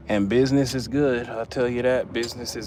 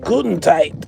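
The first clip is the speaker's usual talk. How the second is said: higher, louder German accent; joking German accent; mock German accent; 6 semitones higher, 7 dB louder than usual. Shown as a demonstration. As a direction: punch out guten tight in German accent. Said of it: "with a German accent".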